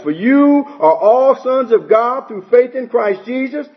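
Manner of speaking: a slow, deliberate reading of the verse; scripture reading. Acted. Preacher reads Galatians to his congregation, slow and deliberate. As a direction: read each word out plainly for the congregation.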